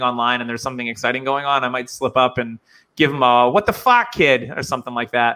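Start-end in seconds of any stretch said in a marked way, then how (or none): 3.5-4.5 put-on excited New Hampshire accent, a burst of annoyance; New England gamer's accent slipping through; slipped-out New England accent. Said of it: "my accent does come through".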